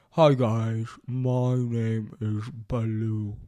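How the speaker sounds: lightly voiced friendly bear from the throat; a hint of a friendly bear, from the back of the throat; Baloo. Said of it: "this is Baloo's voice".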